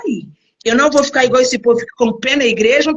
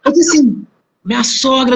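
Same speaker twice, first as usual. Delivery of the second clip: ordinary talk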